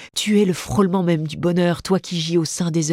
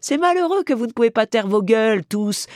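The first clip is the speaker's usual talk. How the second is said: growling stage manager; 5 semitones higher than usual. Acted. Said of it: "son mufle de dogue bonasse en grayonnant".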